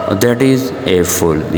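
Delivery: each word drawn out slowly for learners; slow careful reading. Shown as a demonstration. Teacher reading the dialogue line slowly to students. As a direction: read it slowly so students can follow. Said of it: "मैं इसको rhythm के साथ पढ़ता हूँ".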